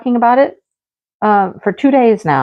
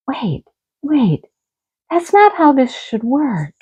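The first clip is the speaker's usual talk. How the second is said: raised-pitch indignant protest; objecting to the husband's new plan, raised and indignant; mock objection; 5 semitones higher, slower than usual. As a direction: push back, half-laughing.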